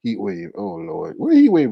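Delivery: a loose mock of a viewer's fussing; Jesus Take the Wheel impression. Mimicking a viewer to tease her, light mock voice. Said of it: "start saying stuff that Jesus Take the Wheel was saying".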